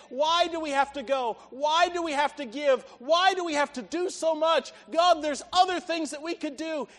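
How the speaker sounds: loud, insistent protest; complaining. Acted. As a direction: pile up the questions, rising in force. Believers complain to God.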